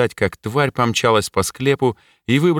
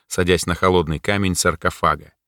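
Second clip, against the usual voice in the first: usual speaking voice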